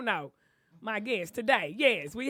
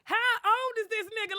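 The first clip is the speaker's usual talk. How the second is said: surprised; 9 semitones higher, 4 dB louder than usual. Retold or imitated. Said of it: "looking at him like".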